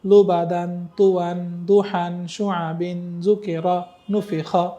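word after word on a level tone; full-line recitation. Shown as a demonstration. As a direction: recite the whole line evenly without spelling. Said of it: "full line একসাথে বলবো".

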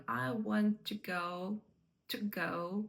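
"to" shrunk to a short schwa before "go"; reduced "to". Shown as a demonstration. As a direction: barely sound the vowel in "to". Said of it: "не говоримо його так прям чітко". (коротеньке, нечітке "to")

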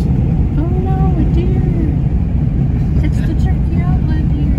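excited. Acted. Mock alarm at a deer.

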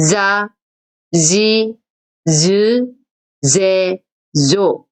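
자, 지, 즈, 제, 조 read one by one, voiced; voiced za row. Shown as a demonstration. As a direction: model 자 지 즈 제 조. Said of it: "다시".

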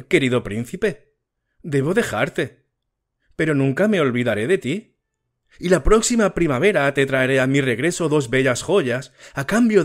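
a lightly voiced little swallow bidding a fond farewell; swallow saying goodbye. The swallow tells the prince she must fly to Egypt, lightly voiced and tender.

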